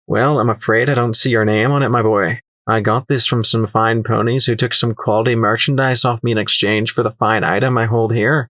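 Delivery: put-on lightly accented, condescending trader; smug dealer explaining his claim; sly merchant.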